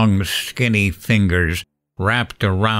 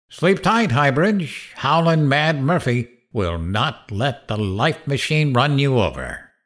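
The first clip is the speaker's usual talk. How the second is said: sinister sign-off. Acted. Evil twin signs off radio.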